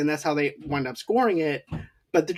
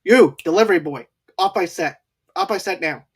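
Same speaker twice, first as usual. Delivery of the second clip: rude director barking orders; 5 dB louder than usual. Retold or imitated. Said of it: "the director is being rude as hell to him".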